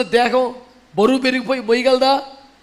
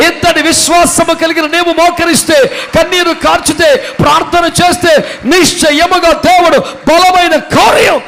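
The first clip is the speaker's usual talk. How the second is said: rhythmic, ringing sermon climax; full-force preaching; 3 semitones higher, 9 dB louder than usual. Real, not acted. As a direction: build steadily to a high, loud shout.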